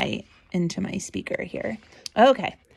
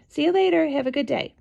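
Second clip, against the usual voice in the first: breezy send-off; 8 semitones higher, faster than usual. Retold or imitated. Mother letting the babysitter go, high breezy send-off. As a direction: call out a chirpy goodbye.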